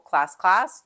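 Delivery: loud rising call of class. Shown as a demonstration. Teacher demonstrating the callback, loud rising call. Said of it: "It's very simple".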